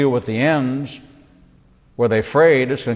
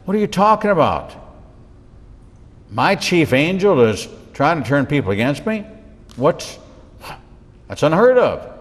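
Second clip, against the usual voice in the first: mock shocked God; 4 semitones higher than usual. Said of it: "he goes".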